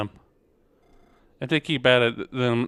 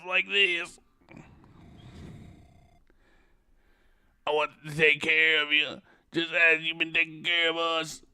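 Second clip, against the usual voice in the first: pleading woman voice; 5 semitones higher than usual. Acted.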